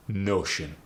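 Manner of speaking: Notion with a short staccato o; Arabic accent Notion. Shown as a demonstration. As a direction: clip the o in Notion. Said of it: "slowly and notion become".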